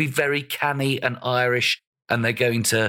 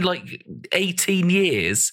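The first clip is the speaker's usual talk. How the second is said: much higher, slow and aggrieved; drawn-out indignation; 5 semitones higher, much slower than usual. Real, not acted. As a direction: stretch it out in disbelief. Ends the protest slowly.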